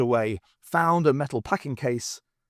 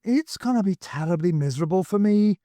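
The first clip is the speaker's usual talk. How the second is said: mock misery; 7 semitones higher, 4 dB louder than usual. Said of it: "with another sigh".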